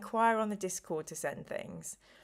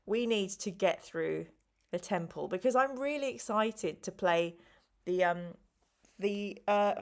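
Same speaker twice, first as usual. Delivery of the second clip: slow, tired delivery with halting pauses. Real, not acted. Tired streamer trying to name the next game, slow and halting. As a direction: talk slowly, groping for the words. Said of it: "I know I'm talking really slowly".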